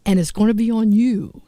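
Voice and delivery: warning threat. Retold or imitated. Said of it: "And I said".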